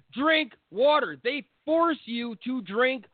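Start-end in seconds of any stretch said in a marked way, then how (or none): 0.1-1.2 drill sergeant order. Retold or imitated. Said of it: "they're like".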